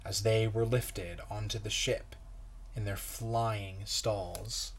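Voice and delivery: put-on reading a picture book aloud to kids; gentle storyteller pace for children; story narration. A narrator's reading. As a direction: read it like a pastor's children's story time. Pastor reads picture book aloud.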